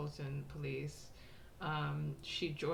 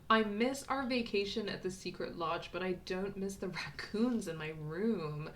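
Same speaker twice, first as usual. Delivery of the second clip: chirpy, higher and slower, reading aloud; bubbly postcard voice; 4 semitones higher, 5 dB louder, slower than usual. Acted. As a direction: read it like an excited girl writing home. Reads postcard in girl's voice.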